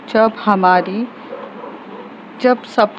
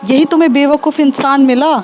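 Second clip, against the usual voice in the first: angry confrontation; 5 semitones higher than usual. Acted. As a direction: tell her off for picking this fool. Kashmira confronts the pushy boyfriend. (Kashmira Ashwini को डाँटती है, गुस्से में ऊँची आवाज़)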